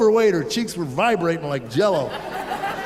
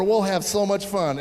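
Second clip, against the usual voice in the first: perky teacher. Retold or imitated. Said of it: "Some perky woman came over".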